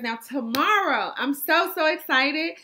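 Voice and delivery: talking while chewing gum; words around a wad of gum. Real, not acted. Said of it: "I got this gum in my mouth".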